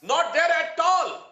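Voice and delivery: driving the point home to the anchor; emphatic point. Real, not acted. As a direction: pitch jumps up, second phrase slowed. Panelist hammering a point home.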